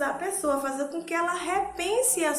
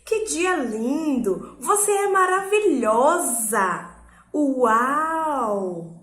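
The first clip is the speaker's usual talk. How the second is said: slow, louder, delighted praise; admiring exclamation; 5 dB louder, much slower than usual. Shown as a demonstration. Teacher demonstrating exclamation, enthusiastic and admiring. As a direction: gush with wonder. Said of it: "expressa admiração, alegria, encantamento".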